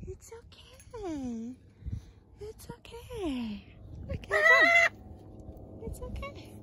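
gently calm a frightened pet; soothing coo. Real, not acted.

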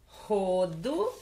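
"rodo" slow, rising at the end; sounded-out word. Shown as a demonstration. Teacher introduces the word to pupils, sounded-out. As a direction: stretch "rodo" out with a lifted ending.

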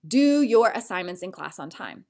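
a hint of a stern teacher; teacher command. Shown as a demonstration. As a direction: order the student, mild teacher voice. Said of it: "a teacher maybe saying this".

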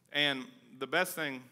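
talking round something in mouth; words through a mouthful; mouth full. Real, not acted. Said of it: "I got something in my mouth".

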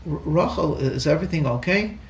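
tiptoeing in to a crying wife; gentle asking. Retold or imitated. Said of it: "And I gently".

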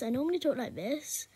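lightly put-on "normal" voice; a hint of a put-on voice; pretend normal voice. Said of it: "No, I don't. I don't talk like that".

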